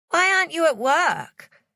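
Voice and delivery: high, scared Savannah; frightened question. A narrator's reading. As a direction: ask in alarm. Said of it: "She looked terrified".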